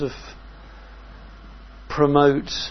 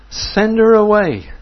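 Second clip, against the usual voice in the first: urgent demand; 8 semitones higher, 8 dB louder than usual. Retold or imitated. Disciples begging Jesus.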